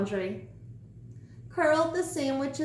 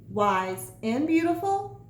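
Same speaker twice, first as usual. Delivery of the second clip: vain sandwich cutting in; 4 semitones higher than usual. Acted. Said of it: "cut in the sandwich".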